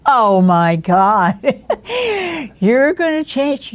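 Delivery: slow oh my God into high laughter; howling laugh. Retold or imitated. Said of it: "he howled".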